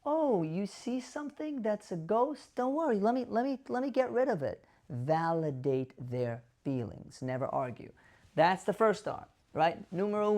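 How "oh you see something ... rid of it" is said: higher, gentle reassuring voice; demonstrated caregiver reassurance; calm, soothing. Shown as a demonstration. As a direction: soothe a worried mom, pitched up. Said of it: "calm, soothing voice".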